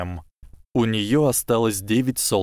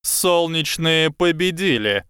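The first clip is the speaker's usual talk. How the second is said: booming; 8 semitones higher than usual. A narrator's reading. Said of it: "прогремел голос профессора Квирла".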